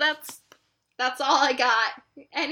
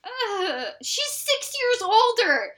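laughing protest; 8 semitones higher, 7 dB louder than usual. Real, not acted. Protesting about her older sister.

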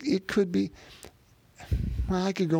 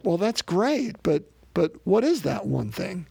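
mock-frustrated, pitch jumping up; exasperated city man; 2 semitones higher than usual. City man presses the cowboy for that one thing, exasperated. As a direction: imitate an impatient greenhorn pressing for answers. Retelling Billy's exasperated question.

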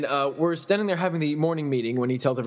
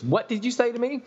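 mock indignant customer; 9 semitones higher than usual.

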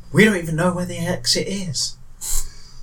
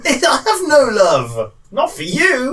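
slow cold refusal; 7 semitones higher, slower than usual. Acted. Mock refusal in character.

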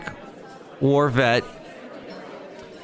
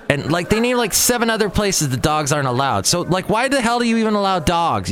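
exasperated rant; 5 semitones higher than usual. Acted. Ranting at the cemetery sign.

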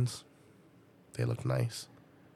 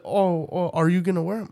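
mock kid voice pitched higher; whiny kid insisting, pitched up; imitating her son; 7 semitones higher than usual. Mother imitating son claiming the shoes, higher mock kid voice.

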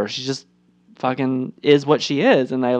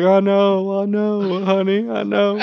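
soothing husband; 5 semitones higher, slower than usual. Retold or imitated. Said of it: "Bill's like".

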